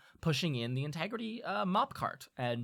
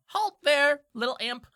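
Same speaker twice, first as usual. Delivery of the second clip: loud, raised guard call; commanding sentry voice, pitched up; guard's challenge; 9 dB louder than usual. Acted. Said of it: "one of these guards go".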